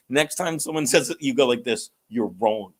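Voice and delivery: low, flat, dry 'You're wrong'; deadpan comeback. Retold or imitated. Coaching a nervous buddy, bone-dry delivery. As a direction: drop it low and dead calm. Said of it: "and I'd be like".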